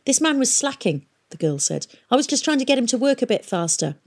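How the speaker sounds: put-on high, fast, self-justifying girl; girl apprentice. A narrator's reading. Girl apprentice justifying jabbing the prisoner, haughty. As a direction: defend herself quickly and haughtily.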